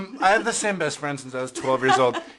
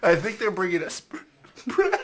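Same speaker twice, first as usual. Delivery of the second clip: high, tearful speech, talking through the crying; 6 semitones higher than usual. Noticing bread being brought to the table, crying while talking. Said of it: "I like that you're crying".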